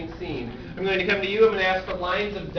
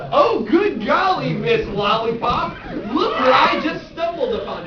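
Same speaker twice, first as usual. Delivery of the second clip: excited exclamation; 3 semitones higher than usual. Acted. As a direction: proclaim it with glee. Host repeats with gusto.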